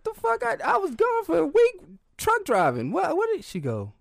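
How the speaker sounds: very high, loud disbelieving rant; a high, loud, rattled complaint; outraged disbelief. Retold or imitated. Granddad tells grandma about the stranger, high and outraged.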